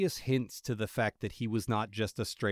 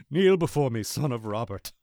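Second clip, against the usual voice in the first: slow theatrical villain menace; 4 dB louder than usual. Retold or imitated. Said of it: "General motherfucking Zod".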